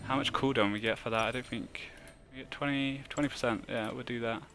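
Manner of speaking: tipsy, mumbling quietly. Real, not acted. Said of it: "I'm so drunk right now".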